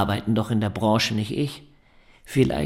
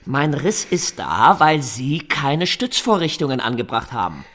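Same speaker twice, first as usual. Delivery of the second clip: laut und langsam anklagen; wütend anklagend; 3 semitones higher, 5 dB louder than usual. Acted. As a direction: den Architekten lautstark beschuldigen. Wütende Beschwerde beim Architekten. (laut, wütend und gedehnt vorwerfen)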